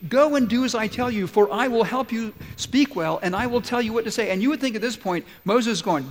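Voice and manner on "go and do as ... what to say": high, loud, firm command; God giving a forceful command; commander's order. Acted. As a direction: lay down the order as commander-in-chief. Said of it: "a command from the commander-in-chief".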